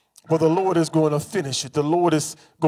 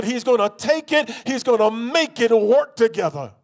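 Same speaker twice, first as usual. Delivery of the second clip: full-force preaching; 5 semitones higher than usual. Acted. Preacher rousing the congregation with full-force preaching. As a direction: build it like the sermon's peak.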